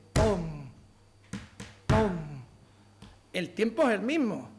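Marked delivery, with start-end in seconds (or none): 0.1-2.1 rhythmic pom. Shown as a demonstration. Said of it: "entra Lebrija y hace".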